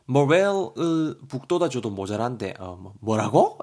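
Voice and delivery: mildly hammed-up exasperation; mock-scold a friend, drawn out; a touch of temper, ending in disbelief; acted annoyance. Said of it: "성질을 내고 있습니다".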